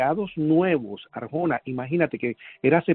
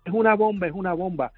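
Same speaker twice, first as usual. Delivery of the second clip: raised-pitch mock yell, fading at the end; retold panicked shout; 3 semitones higher than usual. Survivor retelling his supervisor's screams, raised mild yell. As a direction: urgently repeat the alarm, half-shouted. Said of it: "comienza a gritar".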